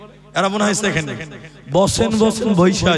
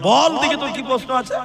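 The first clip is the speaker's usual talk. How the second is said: put-on higher-pitched, indulgent challenge to a child; dismissive challenge; 5 semitones higher, 3 dB louder than usual. Preacher to a cheeky small boy, dismissive challenge. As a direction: brush the little boy off, pitched up. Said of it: "তুই কত ছোট ছেলে".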